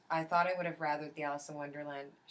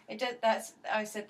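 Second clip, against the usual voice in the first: mock exasperated; 4 semitones higher, 5 dB louder than usual. Retelling her meltdown in a shop.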